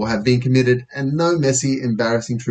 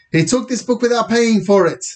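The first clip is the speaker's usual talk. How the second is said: high, accusing manager voice; indignant manager; 10 semitones higher than usual. Acted. Post office manager to police about the book, high and accusing. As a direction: denounce him in a pitched-up voice.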